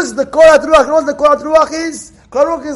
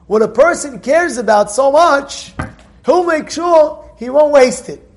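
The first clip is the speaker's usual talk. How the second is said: ordinary talk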